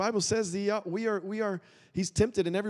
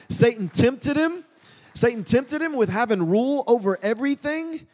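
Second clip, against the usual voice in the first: preaching emphasis; 5 semitones higher, 5 dB louder than usual. Real, not acted. Preacher building to climax.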